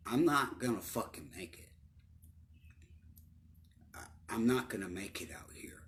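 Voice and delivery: sinking into a near whisper, the voice giving out; broken-down despair. Retold or imitated. Newly released from prison and overwhelmed, breaking down in despair. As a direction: let it crumble as you realise you won't make it. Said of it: "I broke down".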